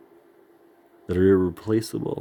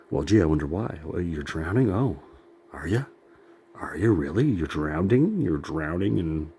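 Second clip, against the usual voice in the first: swooping, disbelieving mock questions; sarcastic mock concern; 2 semitones lower than usual. Mocking own drowning dream, sarcastic. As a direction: feign wonder at a silly complaint.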